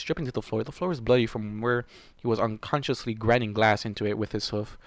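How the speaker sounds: usual speaking voice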